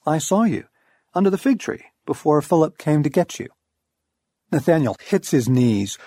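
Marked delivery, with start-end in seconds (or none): 0.1-3.5 offhand and breezy, a lifted oh; lightly voiced casual reply. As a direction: toss it off like nothing. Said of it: "Jesus says casually".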